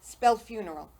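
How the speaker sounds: loud, punchy prodding; coaxing challenge. Retold or imitated. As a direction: imitate someone jollying a caller along. Funeral man challenging the upset caller.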